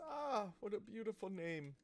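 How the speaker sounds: tailor fussing over a customer; lightly voiced gossipy tailor; chatty tailor. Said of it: "and he goes".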